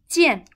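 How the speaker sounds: 见 with a sharply falling fourth tone. Shown as a demonstration. Teacher models the tone of a syllable, fourth tone. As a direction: pitch 见 high, then drop it. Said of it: "Fourth tone".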